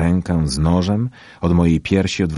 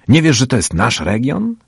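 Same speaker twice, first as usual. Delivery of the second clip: louder, higher challenging question; pushy, raised-voice question; confrontational challenge; 8 semitones higher, 7 dB louder than usual. A narrator's reading. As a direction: throw it out as a territorial challenge. Big boy challenges narrator.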